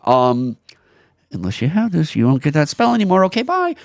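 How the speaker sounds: a hammed-up shrug from a company rep; mock dismissive company voice. Mimicking Wizards brushing off customers, mock breezy. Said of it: "now they're telling you".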